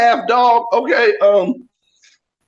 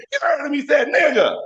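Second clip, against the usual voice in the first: a hint of a know-it-all kid, higher; lightly voiced bratty daughter; 8 semitones higher than usual. Daughter telling her brother what daddy said, lightly childlike. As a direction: tattle like a smug sister. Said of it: "My daughter said".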